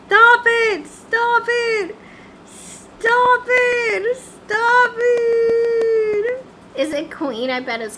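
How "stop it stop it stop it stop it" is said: yelled, higher and louder; exasperated higher shouts; frustrated shout. Real, not acted. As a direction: yell at the screen to stop. Yelling at glitching game.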